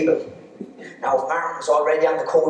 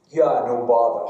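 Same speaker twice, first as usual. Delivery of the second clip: put-on swotty Gaeltacht pupil accent; 4 semitones lower than usual. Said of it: "You know the accent".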